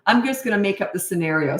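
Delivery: ordinary talk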